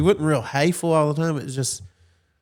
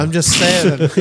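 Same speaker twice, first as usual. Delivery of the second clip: put-on whiny kid; 4 semitones higher, 7 dB louder than usual. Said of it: "and I'm like".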